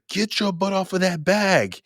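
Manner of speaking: high, drawn-out exasperated telling-off; slow, high-pitched parental reprimand; scolding mother. Retold or imitated. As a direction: imitate a fed-up mom scolding her child. Mother scolding her boy in story.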